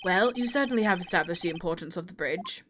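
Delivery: put-on a light posh English accent for the judge; stern judge, lightly posh English. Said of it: "keep him sounding posh English".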